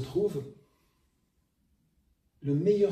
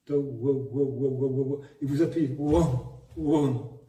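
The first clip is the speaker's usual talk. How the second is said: vocal wobble demo. Shown as a demonstration. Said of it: "vous la faites tourner".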